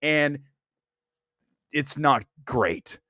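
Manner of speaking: slow, drained and flat-out bored; numbed moviegoer after the film; mock bored drag. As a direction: drag each line out like you're exhausted. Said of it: "you're just like".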